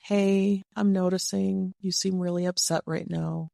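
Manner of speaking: gentle, calming check-in; soft, warm. Shown as a demonstration. Coach models noticing a partner is upset, soft and warm. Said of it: "an example of the alternative".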